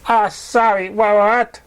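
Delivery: high, flustered stammer; a startled, stammering pony. Acted. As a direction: caught off guard, stumble over it. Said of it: "he stammered".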